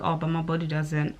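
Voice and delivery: soft, flat inner reply; inner thought. Retold or imitated. Answering a compliment in her head, quietly deflated. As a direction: mutter it to yourself, deflated. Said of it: "I think".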